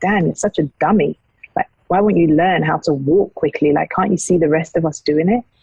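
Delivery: ordinary delivery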